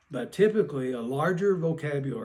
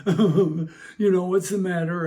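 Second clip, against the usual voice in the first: raised, louder mock concern to a child; concerned asking; 3 semitones higher, 7 dB louder, slower than usual. Adult asks a passing child what is wrong, concerned. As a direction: check in on an upset child, voice lifted.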